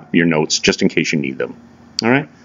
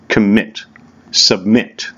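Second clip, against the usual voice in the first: commit and submit, each hit on "mit"; teacher showing the stress of "commit" and "submit"; stress on the second syllable; much slower than usual. Shown as a demonstration. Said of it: "the emphasis is on the second syllable".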